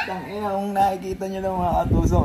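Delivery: loud talking through laughter; cracking up while talking; laughing. Real, not acted. Laughing at friend's face.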